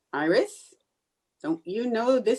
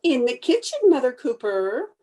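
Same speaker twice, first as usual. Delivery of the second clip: raised, higher call to another room; pitched-up reply to a caller; calling back; 3 semitones higher, 4 dB louder than usual. Acted. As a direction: sing out an answer through the house. Answers the visitor from the kitchen.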